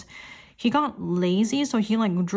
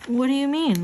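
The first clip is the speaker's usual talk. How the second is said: incredulous; 7 semitones higher, 4 dB louder than usual. Retold or imitated. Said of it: "I'm like".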